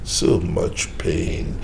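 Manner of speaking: slow, heavy regret; mild, slowed remorse; pained self-reproach. Retold or imitated. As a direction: drag out so much pain. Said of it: "I say to myself".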